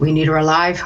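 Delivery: whispering. Playing a character whispering a question into Taro's ear: whispering into someone's ear. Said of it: "As whisper, right into his ear".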